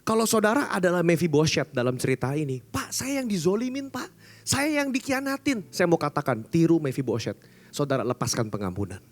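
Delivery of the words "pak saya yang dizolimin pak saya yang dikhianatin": higher, mock whiny victim; a hint of sulking grievance; self-pitying complaint. Wronged person complaining. (mengeluh seperti korban, agak merengek)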